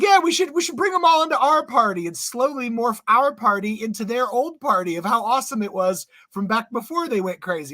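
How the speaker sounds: high, eager mock voice that settles down; mock eager Democrat. Podcast host mocking Democrats, high eager parody voice. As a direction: parody a naive party insider pitching the plan.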